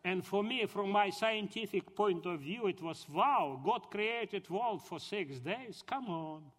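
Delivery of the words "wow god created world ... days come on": incredulous reaction. Retold or imitated. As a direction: scoff in mock amazement at the claim. Acting out his scientific disbelief.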